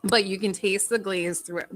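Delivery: chewing while talking; mouth full. Real, not acted. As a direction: talk through a bite of donut. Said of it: "pardon my mouth being".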